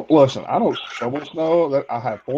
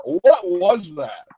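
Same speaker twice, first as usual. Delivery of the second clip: incredulous; 3 semitones higher, much slower than usual. Real, not acted. Teasing mock disbelief.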